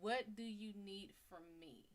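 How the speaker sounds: gentle. Shown as a demonstration. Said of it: "So just speak to her".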